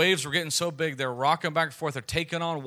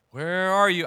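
playful seeking call; 5 semitones higher, 7 dB louder than usual. Retold or imitated. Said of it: "I like".

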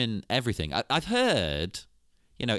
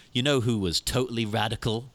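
lightly hyped youth pastor pitch; a hint of an eager youth pastor; 9 dB louder than usual. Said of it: "He'd be like a youth pastor".

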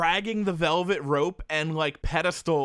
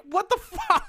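laughing disbelief; slower than usual. Retold or imitated.

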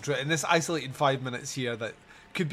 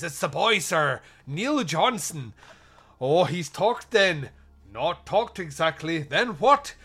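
slow, lightly put-on Irish accent; bad Irish accent; 3 semitones higher, 6 dB louder, slower than usual. Podcaster voicing Irish detectives in a bad accent. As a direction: drag the Irish cop lines out slowly. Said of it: "I'm gonna do bad Irish accents".

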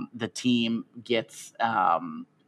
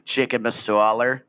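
slow, Boston-style "masala" with no r; mock Boston accent; 3 dB louder than usual. Teasing her friend, slow Boston "masala". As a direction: drop the r in "masala" like a Boston guy. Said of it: "I said it like a Boston guy".

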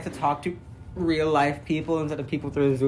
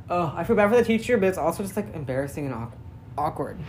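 talking through hiccups; hiccuping mid-sentence; 2 semitones higher, 5 dB quieter than usual. Real, not acted. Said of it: "Oh, I do have the hiccups".

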